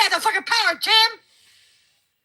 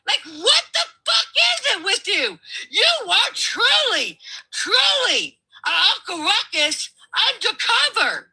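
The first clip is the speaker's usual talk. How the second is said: exasperated yell; 5 semitones higher than usual. Real, not acted. Heated on-air argument, yelling at Tim.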